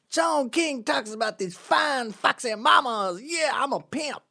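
high, slow put-on Black pimp accent; dated Black accent. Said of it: "my black accent is a little, about thirty years too old".

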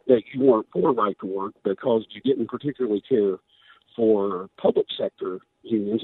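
hoarse voice. Real, not acted. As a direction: voice going hoarse and worn. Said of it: "losing my voice".

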